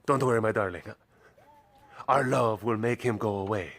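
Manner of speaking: lightly voiced smooth-talking lover; a hint of a corny romantic suitor; Max. Speaker voices a cat comforting his darling, lightly acted wooing. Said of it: "then that's Max's solution".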